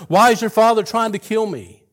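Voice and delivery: high, loud desperate pleading; a hunted man crying out, high and loud; anguished cry. Acted. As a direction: cry out to your friend, begging to know why. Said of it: "David cries out to Jonathan".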